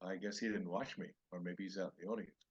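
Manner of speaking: soft private musing, trailing down; retold murmur to oneself; talking to oneself. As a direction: think it aloud, softly. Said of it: "I go to myself".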